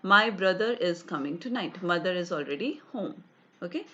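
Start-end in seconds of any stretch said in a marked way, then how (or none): none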